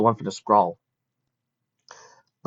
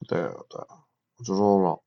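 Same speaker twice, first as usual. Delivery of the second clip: soft cooing; 2 semitones lower than usual. A narrator's reading. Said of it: "He cooed softly in her ears".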